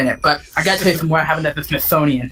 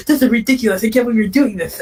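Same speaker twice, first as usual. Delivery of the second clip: outraged mom; 4 semitones higher, faster than usual. Retold or imitated.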